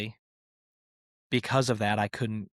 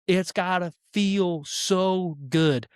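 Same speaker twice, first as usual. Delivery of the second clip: savoring; 6 semitones higher, slower than usual. Real, not acted. Savoring imagined ejection.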